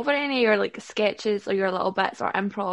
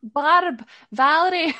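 put-on British accent; 7 semitones higher, 7 dB louder, slower than usual. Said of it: "you're gonna play with a British accent".

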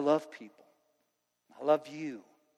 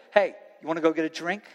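quick, breezy offer of a drink; fast, offhand peer-pressure voice; casual invite; 3 dB louder, faster than usual. Retold or imitated. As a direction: toss it off like a friend tempting you. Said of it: "It's gonna sound like this".

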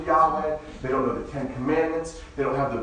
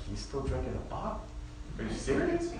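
mock disbelief; 8 dB quieter than usual. Pastor mocking a parent of a bottle-fed seven-year-old, incredulous. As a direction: act shocked at a kid with a bottle. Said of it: "you're like".

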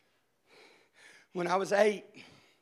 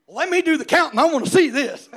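put-on a touch louder, laughing kid brother; teasing brother; 7 semitones higher, 16 dB louder than usual. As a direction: egg him on. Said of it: "He goes".

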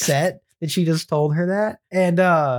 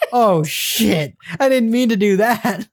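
higher, different-sounding mock mom; mom's oops; 4 semitones higher than usual. Mom to herself after spoiling it, mock higher voice. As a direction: play the mom catching her own mistake. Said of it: "she's like".

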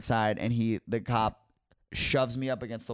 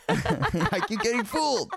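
laughing; 12 semitones higher than usual. Real, not acted. Laughing at own mishap.

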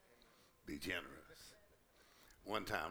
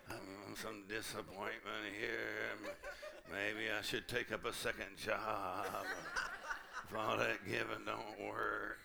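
slow, amused and laughing; slower than usual. Retold or imitated. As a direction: chuckle through it. Mock worrying, laughing.

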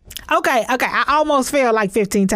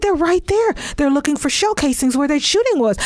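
a bit higher, pointing it out; lightly voiced friend; 3 semitones higher than usual. Imitating Travis pointing out the police, lightly. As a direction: friend calmly indicating the police. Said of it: "He said".

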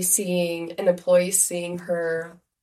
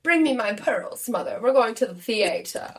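high, lightly posh lady voice; imperious plummy grande dame; 4 semitones higher than usual. Pretend. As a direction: play a grand lady, half joking. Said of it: "how fancy did we feel as kids".

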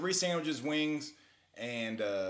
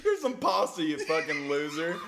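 mock shout; 4 semitones higher, 4 dB louder than usual. Voicing the Italian guy.

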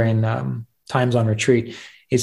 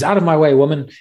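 higher, louder brush-off; pushy command; 4 semitones higher, 3 dB louder than usual. Acted. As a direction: shove past her with words. Student pushes past servant.

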